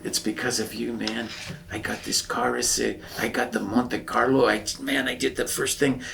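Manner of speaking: lightly imitated Chicano lowrider accent. Lowrider showing off his car, Chicano accent. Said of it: "They have these wonderful accents".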